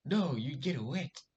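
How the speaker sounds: high, loud, slow "No, you get wet"; girl's retort. Retold or imitated. The girl dismissing his joke, mimicked high and loud.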